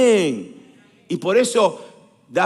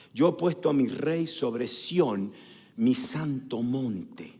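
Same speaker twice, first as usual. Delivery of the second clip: slow, low, deliberate scripture recitation; solemn decree; 6 semitones lower, 5 dB quieter, much slower than usual. Acted. God announces his king over Sión, solemn and slow. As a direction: pronounce it weightily, word by word.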